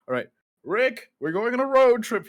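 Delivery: high, loud cheerful road trip call; hearty announcement. Acted. Uncle scooping up sleepy boy, high and hearty. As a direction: sell it as a big adventure.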